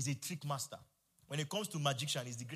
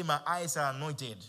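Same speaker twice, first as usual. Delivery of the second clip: slow and louder, each word planted; louder, slower declaration; 5 dB louder than usual. Shown as a demonstration. Preacher urges the church to repeat it louder and slower. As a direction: declare it again with more weight. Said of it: "Say it again".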